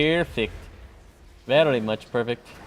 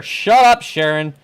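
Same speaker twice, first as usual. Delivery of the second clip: mock yelling; 3 semitones higher, 7 dB louder, slower than usual. Driver telling off the GPS, mock yelling. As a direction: act out yelling back at the GPS. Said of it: "I yell at her constantly".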